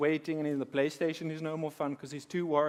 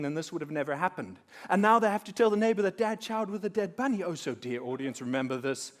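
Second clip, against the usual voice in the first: mock moralizing lecture; 4 dB louder than usual. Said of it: "do I have to give you a lesson".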